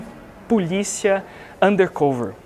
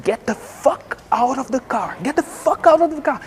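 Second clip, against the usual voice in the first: mild mock yell, slow and rising higher; retold yell; 6 semitones higher, slower than usual. Armed undercover officer ordering driver out, mild mock yell. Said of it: "gritando mesmo".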